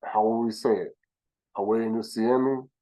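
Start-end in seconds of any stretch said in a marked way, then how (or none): 1.6-2.7 slowly, carefully sounding out "Awe Nusiemi"; deliberate Kikongo pronunciation of "Awe Nusiemi"; Kikongo greeting. Shown as a demonstration. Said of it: "This is why we would say".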